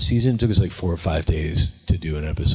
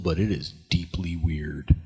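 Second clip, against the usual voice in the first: whisper; 3 semitones lower, 6 dB quieter than usual. Retold or imitated. Retold doubts about the show.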